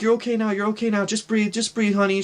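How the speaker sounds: lightly acted motherly comforting; consoling mom. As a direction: soothe a crying child as a worried mother. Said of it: "She's consoling me and holding me".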